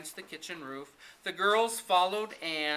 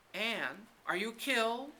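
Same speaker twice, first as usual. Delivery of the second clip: shriek; 7 semitones higher than usual. A narrator's reading. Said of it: "she shrieked".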